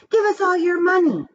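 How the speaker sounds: high, loud robber demand. A narrator's reading. Masked robbers demanding money from the class, loud and high. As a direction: bark it like a holdup. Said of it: "they demanded".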